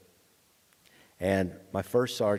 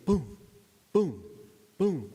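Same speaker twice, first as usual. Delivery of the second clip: spaced-out booms, each falling from high pitch; slow gunfire booms; 7 semitones higher, slower than usual. Retold or imitated. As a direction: imitate a heavy gun firing single rounds. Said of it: "that's not how they shoot".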